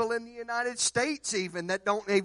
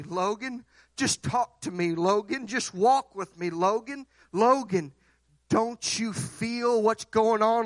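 tender then rising urgent plea; God calling Logan. Acted. Preacher voicing God pleading with Logan, gentle then urgent. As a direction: call him gently, then press harder. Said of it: "God has been talking to Logan".

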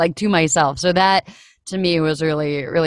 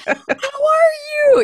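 high, laughing "How are you?" through giggles; laughing greeting; 4 dB louder, slower than usual. Retold or imitated. Bumping into an old friend mid-exam, laughing and high. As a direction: squeal it out while laughing. Retold awkward reunion, laughing.

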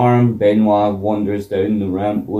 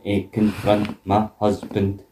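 robotic Linda; 4 semitones lower, 4 dB quieter than usual. Retold or imitated. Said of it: "I am Robo Linda".

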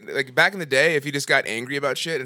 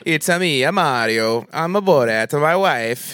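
mock Mario accent; 3 semitones higher, 4 dB louder, slower than usual. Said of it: "they don't talk like this".

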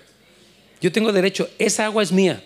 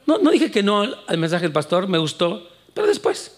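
high, whiny excuse, up high on pero después; lazy churchgoer; 4 semitones higher than usual. Retold or imitated. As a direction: protest that you only mean later. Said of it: "churchgoer excuse".

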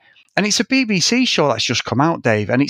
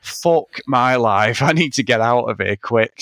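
despair; 3 semitones lower, slower than usual. Retold or imitated. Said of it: "I was just like".

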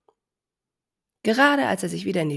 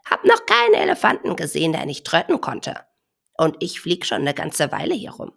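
comforting bird; 5 dB louder than usual. Acted. Bird consoles crying elephant.

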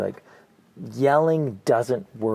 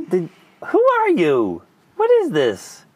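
high, loud mock-kid bewilderment; kid's baffled voice; 10 semitones higher, 8 dB louder, slower than usual. Kids asking dad, high loud baffled voice. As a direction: pitch up and play the kid who can't believe it. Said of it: "be like".

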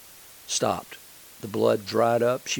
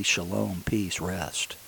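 God's calm voice; 3 semitones lower, 5 dB quieter, much slower than usual. Retold or imitated. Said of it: "I heard God say to me".

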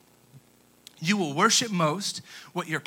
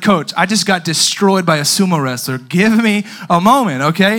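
loud, raised-voice arguing; exasperated protest; 8 dB louder than usual. Retold or imitated. Flattened player arguing with coach, exasperated protest. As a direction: argue back loudly at the coach.

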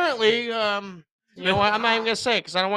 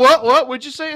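louder, higher mock disbelief; mocking friend; 5 semitones higher, 8 dB louder than usual. Friend mocking how he says a word, exaggerated disbelief. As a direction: pester with hammed-up confusion. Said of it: "He's like".

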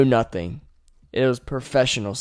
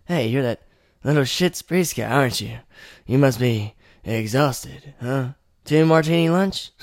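lightly voiced Traeger. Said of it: "you meet Traeger".

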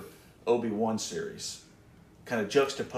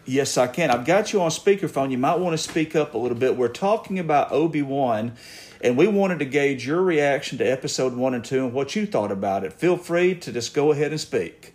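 louder for the speakerphone; speaking up; 3 semitones higher, 5 dB louder than usual. Real, not acted. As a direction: project so the caller hears. Talking loudly on speakerphone call.

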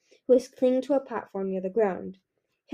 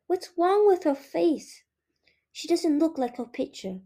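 chatty little dragonettes; 2 semitones higher than usual. Acted. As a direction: play curious, tactless little kids. Dragonettes whisper among themselves.

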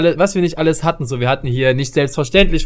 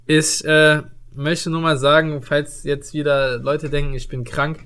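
nasal voice. Real, not acted. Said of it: "Nesel beim Sprechen".

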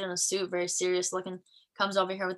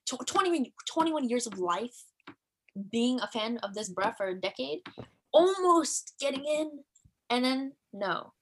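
dramatic lament; 4 semitones higher than usual. Retold or imitated. Retold frustration.

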